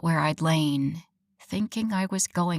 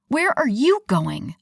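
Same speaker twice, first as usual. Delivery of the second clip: mocking echo of his question; snarky; 4 semitones higher, 5 dB louder than usual. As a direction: throw his words back sarcastically. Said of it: "I snarked".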